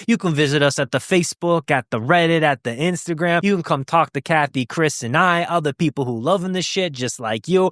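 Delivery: half-slipping into a mock Italian lilt; accidental Italian accent. Real, not acted. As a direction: promo plug with a touch of Italian accent. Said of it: "I don't know what accent I'm leaning into".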